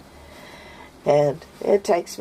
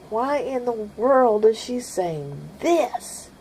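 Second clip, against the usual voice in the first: puzzled listener; 8 semitones higher, slower than usual. Pretend. Imagined listener asking, puzzled.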